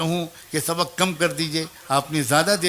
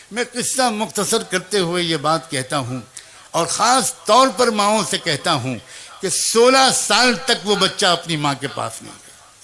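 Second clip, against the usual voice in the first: louder sermon emphasis; preaching at the crowd; 3 dB louder than usual. Acted. Preacher speaking directly to mothers, louder emphatic preaching. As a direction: drive the point home to the mothers.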